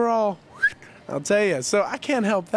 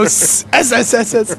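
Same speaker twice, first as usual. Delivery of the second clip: drawn-out s like a snake; 3 semitones higher, 8 dB louder, slower than usual. Retold or imitated. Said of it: "You know how snakes go".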